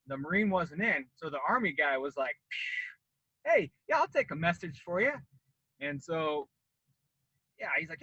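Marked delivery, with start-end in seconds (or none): 3.4-5.1 salesman pouncing on a walk-in; eager recruiter. Retold or imitated. Voicing the Army recruiter.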